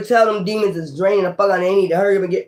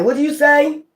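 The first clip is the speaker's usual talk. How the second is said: higher, sharp challenging question; indignant what did you say; 7 semitones higher than usual. Retold or imitated. Confronting someone who muttered at you, high indignant challenge. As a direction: demand it back like you half-heard an insult. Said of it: "You be like".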